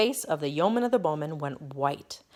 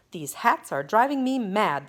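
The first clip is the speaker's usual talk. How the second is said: ringing out; 4 semitones higher, 5 dB louder than usual. Acted. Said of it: "the king's voice rang out".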